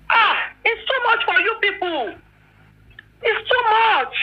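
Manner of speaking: worn out, voice crying over the words; close to tears. Real, not acted. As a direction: let the tears break through. Wife hurt by online accusations.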